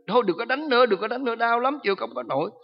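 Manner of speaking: high, pained begging; pleading demon. Retold or imitated. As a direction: beg to stop the beating. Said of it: "Mỗi lần cầu nguyện đó". (giọng quỷ van xin đau đớn)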